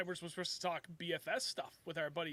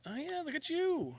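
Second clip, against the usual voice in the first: whispering; 11 semitones higher, slower than usual. Real, not acted. Reacting to the friend's pillow.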